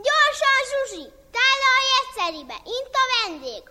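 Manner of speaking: high, loud hurried call to the kitchen. Acted. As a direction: shout the order across the house. Master calls in breathless.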